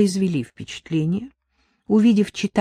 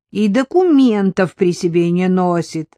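vindictive; 5 dB louder than usual. Acted. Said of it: "мстительно добавил сержант".

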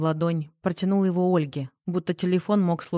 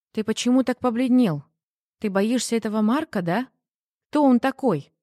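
higher-pitched, pressing questions; raised, insistent questioning; concerned probing; 4 semitones higher than usual. Acted. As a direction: press a frightened partner for the truth. Wife anxiously questions pale husband.

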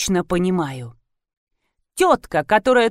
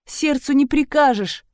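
sobbing; 6 semitones higher than usual. A narrator's reading. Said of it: "рыдала Великанова".

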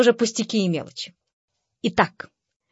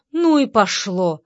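plain reading voice

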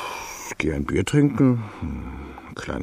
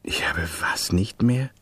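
stunned whisper; 4 dB quieter than usual. Acted. Stunned disbelief.

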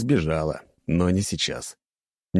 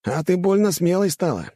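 higher snarling lad voice; sneering bully; 10 semitones higher than usual. A narrator's reading. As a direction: threaten her with a grin. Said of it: "оскалился блондин".

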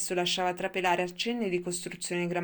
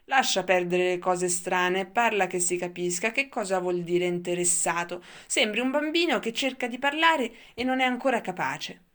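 put-on louder, exasperated boy snapping at grandpa; irritated outburst; 6 dB louder than usual. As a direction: scold the old man impatiently. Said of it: "sbottò Labbro Leporino".

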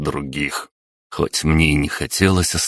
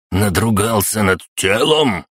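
гневно процедил; 5 semitones higher than usual. Acted. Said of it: "гневно процедил Степаныч".

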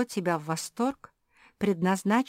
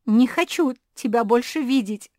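angry yell; 7 semitones higher, 12 dB louder than usual. Acted. Zefirka's angry outburst.

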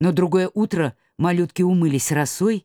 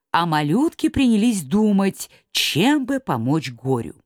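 ordinary delivery, nothing marked

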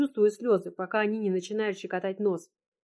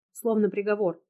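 plain reading voice

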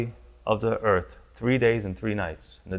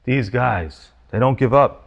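exasperated; 5 dB louder than usual. Retold or imitated. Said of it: "it's that he's exasperated".

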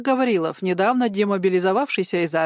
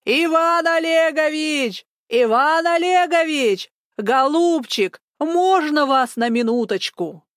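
high, slow, drawn-out shouting of a name; yelling at full throat; 7 semitones higher, 3 dB louder, slower than usual. Acted. Old woman yelling down the corridor for the district officer. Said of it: "как заорёт во всё горло".

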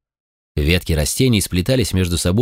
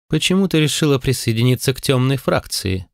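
higher, tense, guarded question; 6 semitones higher than usual. A narrator's reading. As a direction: ask with held-back suspicion. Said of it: "напряжённый голос". (напряжённо)

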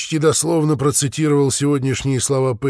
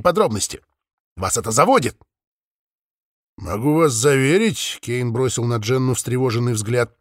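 eerie electronically distorted caller; a menacing, warped voice on the phone; 4 semitones higher, 3 dB louder than usual. Acted. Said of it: "неприятный, искажённый голос".

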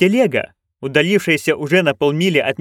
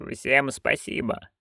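announced; 8 dB quieter, slower than usual. A narrator's reading. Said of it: "объявила она".

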